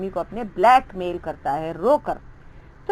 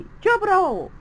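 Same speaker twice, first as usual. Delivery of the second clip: scolding teacher; 4 semitones higher than usual. Acted. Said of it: "वो उन लोगों को डांटने लग गई".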